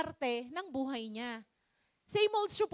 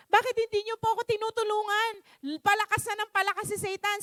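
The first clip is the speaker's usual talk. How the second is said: higher-pitched, lightly angry protest; mildly angry complaint; 4 semitones higher than usual. Acted. Man asking the Lord for help, mildly angry. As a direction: protest with a touch of anger. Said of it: "nagagalit na naman siya sa Panginoon".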